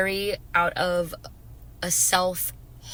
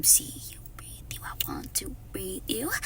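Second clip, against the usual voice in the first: breathy whispered lyric, much softer; whispered song lyric; 9 dB quieter than usual. Acted. Vlogger whispers the lyrics of a song she loves. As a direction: whisper the words like a secret. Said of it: "It's such a good song".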